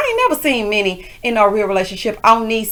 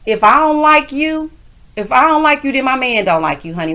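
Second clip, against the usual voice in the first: 1 quoting approvingly; 4 semitones higher than usual. Retold or imitated. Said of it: "I rewinded that part".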